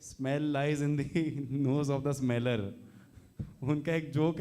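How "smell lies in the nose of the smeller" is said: slow, pompous twist of a saying; slow mock proverb. Host parodying a proverb, slow and mock-solemn. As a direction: deliver the parody deadpan and slow.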